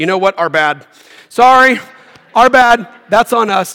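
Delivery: casually blurted out. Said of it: "the people come to Moses and go".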